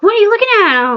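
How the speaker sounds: high-pitched quote of a startled grandmother; retold grandmother. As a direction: imitate an alarmed grandmother, pitched well up. Retold grandmother alarmed at her pointing.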